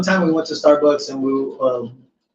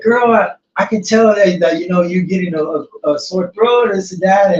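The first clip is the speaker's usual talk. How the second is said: lightly pitched-up barista voice; imitated white girl; 4 semitones higher than usual. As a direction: mimic a chatty girl at the drive-thru. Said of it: "this was a white girl".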